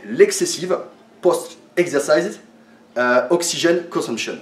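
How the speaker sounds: halting English with a French accent. Real, not acted. Trainer spelling out an English acronym to viewers, French-accented English. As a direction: read the English term slowly in a French accent. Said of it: "pour mon accent anglais".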